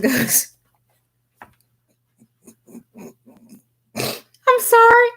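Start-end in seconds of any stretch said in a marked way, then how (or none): 4.0-5.1 high, slow, squeaking through laughter; laughing apology. Real, not acted. Tarot reader to her viewer Vincent, giggling helplessly. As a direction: apologize while you can't stop laughing.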